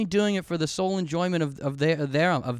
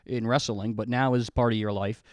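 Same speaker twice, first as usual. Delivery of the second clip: dramatic subtitle read; 3 semitones lower than usual. Pretend. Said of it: "Don't show me the words".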